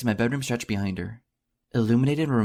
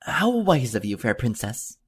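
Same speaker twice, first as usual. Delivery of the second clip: heroic exclamation; slower than usual. Acted. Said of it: "I exclaim while performing a heroic bow".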